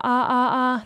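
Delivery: ah sung with an open mouth; open vowel demo. Shown as a demonstration. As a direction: open the jaw and sing ah. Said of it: "like that".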